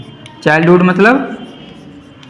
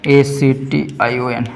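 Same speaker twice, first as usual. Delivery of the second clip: spelling out; 4 semitones lower, 5 dB quieter, much slower than usual. Shown as a demonstration. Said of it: "क्वालिटी स्टेट एक्शन".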